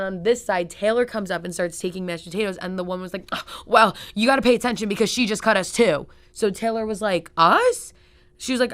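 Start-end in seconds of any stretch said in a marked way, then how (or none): 3.3-6.1 mocking the woman. Mocking the rude woman at Whole Foods. 7.4-7.9 high, loud incredulous squeak; shocked "Us?". Retold or imitated. Taylor, stunned at the woman, squeaks in disbelief.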